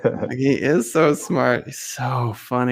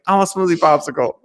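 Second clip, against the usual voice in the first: son's whiny demand; 5 semitones higher, much faster than usual. Retold or imitated. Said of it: "and he's like".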